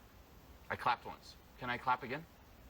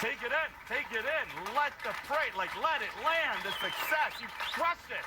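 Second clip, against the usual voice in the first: high, loud celebration; real hyped congratulations; excited praise; 9 semitones higher, 4 dB louder than usual. Real, not acted. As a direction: cheer the student over applause. Coach celebrating over applause.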